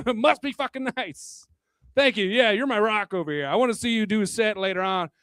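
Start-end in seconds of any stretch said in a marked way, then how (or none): 0.1-1.5 slow and bitter "Must be fucking nice"; dry envious jab; sarcastic. Acted. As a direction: sneer it out slowly. Catchphrase repeated after laugh.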